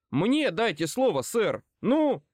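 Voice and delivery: high, insistent angry demand; ringing with anger. A narrator's reading. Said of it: "Мой голос тоже звенел от злости". (звенящим от злости голосом)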